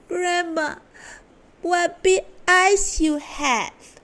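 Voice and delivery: put-on high, slow wide-eyed girl; girl exclaiming. A narrator's reading. Little Red Riding Hood staring at grandma in bed, high and amazed.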